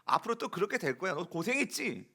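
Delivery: mock scolding of a lost sheep; half-acted I-told-you-so telling off; preacher imitates a shepherd berating his lost sheep, mock scolding. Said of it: "네, 이랬을 것 같아요".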